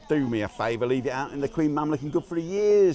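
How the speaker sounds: a light mock Cockney accent. Host shows viewers his jokey Cockney accent. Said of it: "That's a Cockney accent".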